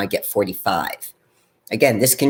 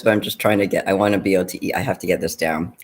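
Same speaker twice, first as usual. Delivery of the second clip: chewing steak; faster than usual. Real, not acted. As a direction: mouth full, still eating. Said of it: "talking with my mouth full sometimes".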